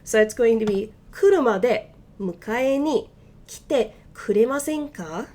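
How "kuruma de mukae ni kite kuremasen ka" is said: slow, deliberate Japanese request; slow careful Japanese; slow careful reading. Shown as a demonstration. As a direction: say it slowly for learners. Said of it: "let's read that a little bit faster".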